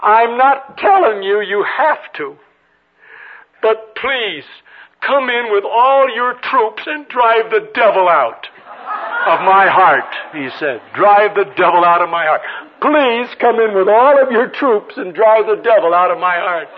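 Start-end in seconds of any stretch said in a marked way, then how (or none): 0.0-10.2 put-on higher, slow Southern boy's prayer; drawn-out, hammed-up Southern child praying; child's Southern accent. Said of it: "Got a strange accent". 10.9-16.7 imitated Southern boy praying earnestly; emphatic, hammed-up Southern child's prayer; child's Southern accent. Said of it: "He's a little southern boy".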